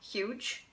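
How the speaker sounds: huge with a breathy hissed h; huge showing the ich sound; English huge. Shown as a demonstration. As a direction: lean on the hiss in huge. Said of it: "you know how you pronounce huge".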